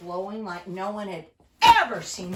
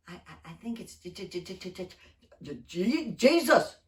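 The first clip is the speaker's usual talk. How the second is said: stammering awe; 4 semitones lower than usual. Acted.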